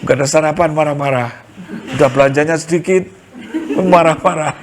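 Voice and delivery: chuckling through the words; amused, laughing aside to the women. Real, not acted. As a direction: laugh while you tease the husbands. Joking about grumpy husbands.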